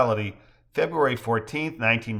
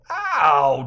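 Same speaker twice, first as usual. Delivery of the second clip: holler; 5 semitones higher, 6 dB louder than usual. Acted. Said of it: "Joe hollers".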